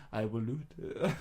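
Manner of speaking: slow mock South African quote; attempted South African accent. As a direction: lightly imitate a South African, measured and slow. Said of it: "he's got, like, a weird accent".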